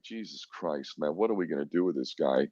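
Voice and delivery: exasperated muttering. Retold or imitated. Commandant at a loss over the prisoner, a soft exasperated mutter. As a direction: mutter it like a boss out of options.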